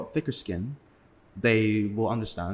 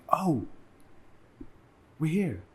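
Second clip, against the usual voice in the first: pitched-up imitation of confused friends abroad; mocking his friends; 7 semitones higher than usual. Friends on holiday forgetting they're not in England, high mock voice. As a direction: play the clueless friend, voice pushed high. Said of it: "and it's like".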